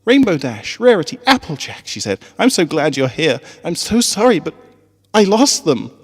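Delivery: tearful. A narrator's reading. Tearful teacher after crying.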